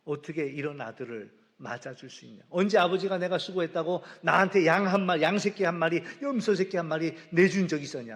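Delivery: indignant protest building to a loud grievance; retold defiance. Elder son protesting to his father about the goat, loud resentful talking back. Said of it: "막 아버지한테 막 대들고".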